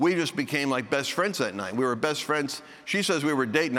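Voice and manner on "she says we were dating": ordinary talk, nothing marked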